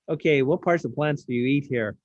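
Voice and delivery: lightly put-on American accent for aliens. Aliens from outer space asking about Earth food, mock American accent. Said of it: "they would have American accent".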